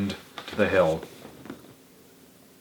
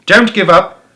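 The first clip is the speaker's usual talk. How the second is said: higher and louder plea; urging call; 7 semitones higher, 6 dB louder than usual. A narrator's reading. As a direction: keep them running. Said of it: "panted Mister Fox".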